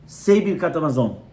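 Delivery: put-on a plain stern command to a child. Shown as a demonstration. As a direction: give the order sternly. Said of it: "you have to say it sternly".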